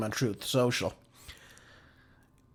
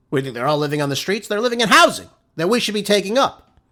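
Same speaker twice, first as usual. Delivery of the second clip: upset; 3 semitones higher, 4 dB louder than usual. Real, not acted. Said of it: "I apologize if I sound upset".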